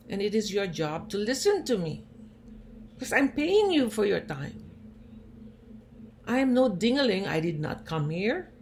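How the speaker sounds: patient scolding the cranky doctor, indignant and loud. Retold or imitated. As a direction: stand up for yourself, hotly.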